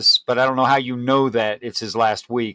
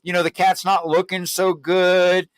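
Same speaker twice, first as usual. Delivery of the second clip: gentle breaking of news; 5 semitones higher, slower than usual. Shown as a demonstration. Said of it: "Next time I call and say".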